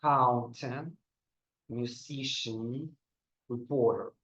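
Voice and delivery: Accountant with the stress on COUN, musician on SI, reporter on POR; middle-syllable stress. Shown as a demonstration. Teacher models the middle-stress words for students to repeat. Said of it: "in the middle".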